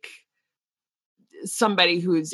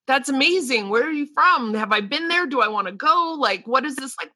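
bright, higher, eager questions tumbling out; eager curious traveler; 6 semitones higher, faster than usual. Retold or imitated. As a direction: gush like a thrilled traveler meeting someone new. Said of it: "so I always want to know".

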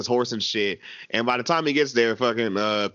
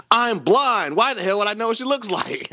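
higher, put-on voice of a grumpy blind old man; 9 semitones higher than usual. Blind George scolding Cliff, higher put-on voice. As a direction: snap back like an annoyed blind man.

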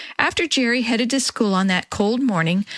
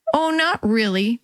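bit of swagger; 2 semitones higher than usual. Acted. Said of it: "with a bit of a swagger".

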